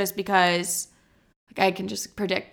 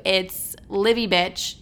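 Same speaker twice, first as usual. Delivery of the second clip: name said slowly and clearly; slow emphatic; much slower than usual. Shown as a demonstration. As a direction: spell out the channel name slowly. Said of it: "check out my YouTube".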